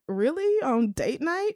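mildly put-out, questioning lilt; irritated disbelief. Retold or imitated. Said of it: "she really got irritated".

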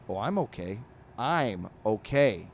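grumbly dog insisting he's fine, slowing down; mock-calm dog. Angry comic dog reassures his owner, half-hearted grumble. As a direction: say it's fine while clearly not. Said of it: "looks angry".

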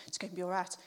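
low, soft murmur to yourself; quiet self-reassurance. Retold or imitated. Mum telling herself during the mask procedure, quietly reassuring. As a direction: reassure yourself under your breath.

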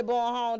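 put-on "Boy home" with no W sounded; dropped W. Shown as a demonstration. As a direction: run "Boy home" together, skipping the W. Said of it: "the W throws me off".

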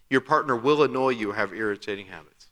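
"will" leaned on as if in capitals; stress on will. Shown as a demonstration. To the congregation about a partner's habits, "will" stressed. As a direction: press hard on "will" to show it's certain. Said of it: "is in all caps".

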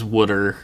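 "wooder" with the vowel of wood; friend's Philly pronunciation. Retold or imitated. Imitating a friend's word for water, Philly "wooder". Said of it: "a friend who says".

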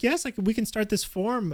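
high, eager saleslady voice; imitating saleslady. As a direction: mimic the pushy saleslady, pitched high. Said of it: "She's like".

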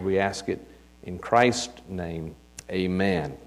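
earnest pulpit prayer, rising on praise. Acted. Pastor praying over the mothers, earnest. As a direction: lead the church in heartfelt prayer.

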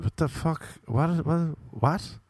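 acted-out total confusion; baffled disbelief. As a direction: stammer it out in disbelief. Acting out his baffled reaction.

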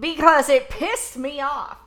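put-on slowed, old-time radio announcer voice; mock old-timey broadcast delivery; 1930s radio announcer. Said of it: "nineteen thirties radio announcer voice".

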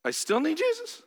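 incredulous. Pretend. Incredulous reply to God.

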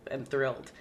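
losing voice, sick and hoarse; croaky sick voice. Real, not acted. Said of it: "sound like I'm losing my voice".

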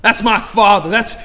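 "father" hit loud and falling, proclaimed; preacher's loud declaration of "father"; loud proclamation. Real, not acted. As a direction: belt out "That's my father". Repeats line, then belts it.

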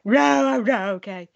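imitating a kid breaking down; holding back tears. Imitating a hurt child about to cry at school.

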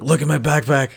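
high, loud, laughing request that slows down; laughing plea. Retold or imitated. The injured kid asking the cop to return his movies, laughing. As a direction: beg through laughter. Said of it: "I'm like".

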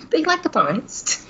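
laughing through a high put-on voice. Cohost repeats the joke, laughing. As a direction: giggle the line out.

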